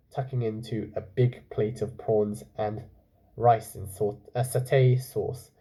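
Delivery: calm storytelling voice; story narration. A narrator's reading. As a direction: read it like a bedtime story. Reads story aloud.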